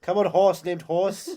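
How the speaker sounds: grandly calling the horse; movie hero voice. Retold or imitated. Quoting the film's hero.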